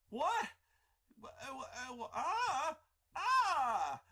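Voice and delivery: high, loud, sputtering disbelief; shocked stammer. Retold or imitated. Crazy Mike reacting to the flamethrower surprise, stunned high sputter. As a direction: flounder for words, caught off guard.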